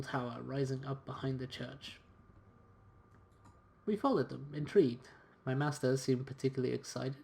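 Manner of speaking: expressive, measured storytelling read; story narration. A narrator's reading. Valet telling of his master's wager in Copenhagen, story narration. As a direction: narrate it like an adventure journal. Reads game's story aloud.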